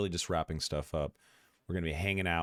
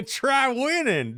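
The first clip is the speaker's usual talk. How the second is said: high slow mock; 9 dB louder, much slower than usual. Shown as a demonstration. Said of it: "repeated high, slow mock".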